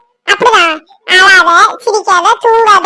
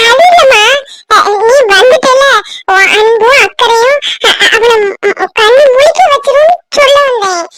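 tearful cover-up. Acted. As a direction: quickly cover the slip with tears. Covers slip, louder tearful redo.

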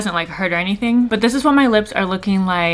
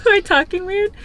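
numb lips, a bit slurred; numb mouth; 12 semitones higher, faster than usual. Real, not acted. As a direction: talk with a numbed mouth. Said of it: "I can't feel literally my mouth".

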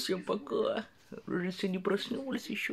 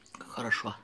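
talking around food in mouth; muffled by chewing; chewing with mouth full; 3 dB louder than usual. Real, not acted. Seen 0: Cheeks full, chewing pastry while talking; bit at -3.

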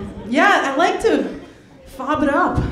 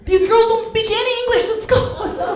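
a hint of an excited bro; guy's voice; 9 semitones higher than usual. Guy retold telling his friend.

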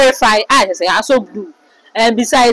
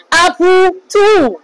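indignant retort; 8 semitones higher, much slower than usual. Retold or imitated. Retold quarrel, Polo answers back.

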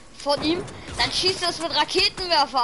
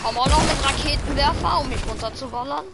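hyped shout; 3 semitones higher, 5 dB louder than usual. Real, not acted. Hyped shout about rocket launcher.

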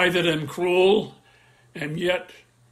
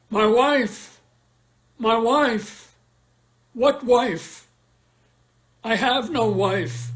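anguished cry; 4 semitones higher, slower than usual. Acted. Othello realizing his horror.

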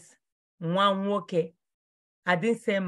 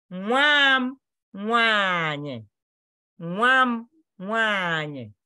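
"nwa m nwaanyị" said slowly for learners; slow, careful teacher's model of "nwa m nwaanyị"; slow pronunciation model; slower than usual. Shown as a demonstration. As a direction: model each word slowly and clearly. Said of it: "I want you to know how to pronounce it".

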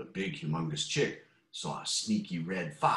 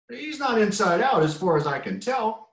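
higher, lightly voiced clucking hen; 11 semitones higher, 5 dB louder than usual. A narrator's reading. Small chicken answering the rooster, clucking. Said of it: "clucked the small chicken".

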